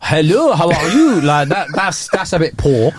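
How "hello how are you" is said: put-on foreign accent on English words; mock English said in a foreign accent. Shown as a demonstration. Showing what he won't say abroad, mock foreign accent. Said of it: "I don't say English shit in the accent".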